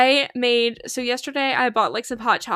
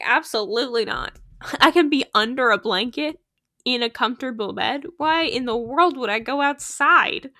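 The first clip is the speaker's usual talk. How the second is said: dog's lazy attitude. Pretend. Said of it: "That's her attitude".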